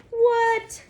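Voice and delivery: high, loud mock-astonished 'what'; mock surprise. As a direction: play it up as if amazed for the child. Mock amazement at snail eggs.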